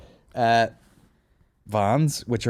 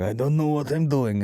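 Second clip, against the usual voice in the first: mock clueless beginner; 6 semitones higher than usual. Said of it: "where he goes".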